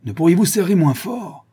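high, protesting exclamation; pained cry. A narrator's reading. Man gripped by the shoulder protests, crying out. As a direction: plead in pain to be let go. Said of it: "s'écria-t-il".

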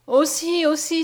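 high, loud protest; crying out. A narrator's reading. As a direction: burst out in objection. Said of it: "s'écria Mariette".

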